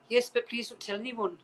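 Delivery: lightly attempted Irish slash Scottish accent; bad Irish accent. Irish actress asking a fan for secrecy, bad Irish accent. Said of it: "That's a really bad Irish slash Scottish accent".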